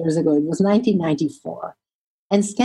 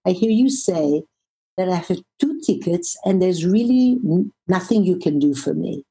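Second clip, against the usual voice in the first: compassionate voice. Retold or imitated. Traveller echoing an exhausted agent's words, compassionate. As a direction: reflect it back calmly and kindly. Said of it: "in a very compassionate w-, voice".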